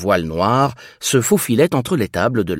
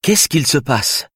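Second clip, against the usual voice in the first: friendly and calm; 5 semitones higher than usual. Acted. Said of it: "d'une voix amicale et sereine pour tenter de la rassurer".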